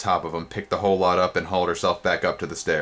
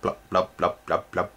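bubbling mud voice. Acted. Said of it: "voice sounded like bubbling mud".

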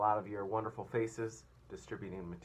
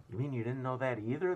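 scornful; 4 semitones higher, 6 dB louder than usual. Acted.

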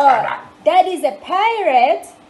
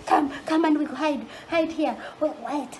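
quiet, secretive hiding; hushed hiding voice; 7 dB quieter than usual. Pretend. Hiding from the pirate.

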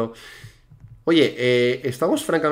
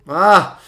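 startled cry; 3 semitones higher, 7 dB louder than usual. Real, not acted. Player startled in the jump.

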